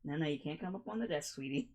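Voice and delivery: soft scolding while holding the cat; gently telling the cat no; holding down a pet. Real, not acted. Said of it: "Damn, harsh".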